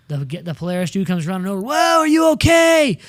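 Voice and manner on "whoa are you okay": high, loud mock alarm; imitating freaked-out staffer. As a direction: call out like a panicked rescuer running over. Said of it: "people start freaking out".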